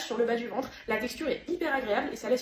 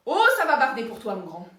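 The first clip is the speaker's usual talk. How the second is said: louder mock threat; 6 dB louder than usual.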